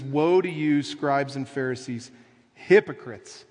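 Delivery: loud rebuke, hitting hypocrites hardest; Jesus yelling. Retold or imitated. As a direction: thunder at the Pharisees. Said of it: "He's yelling".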